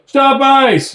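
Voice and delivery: high, loud shrill protest yell; hammed-up protester shouting; mocking protesters yelling in the freezing cold. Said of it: "They're out there yelling".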